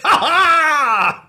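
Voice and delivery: very high, very loud triumphant cry; gleeful boss cackle. Acted. Boss greeting fresh spice, very high loud whoop. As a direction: whoop with delight as spice pours out. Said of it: "and he's like".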